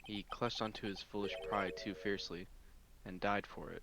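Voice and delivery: low, subdued lawyer voice; quiet, weighted delivery; somber Phoenix. Acted.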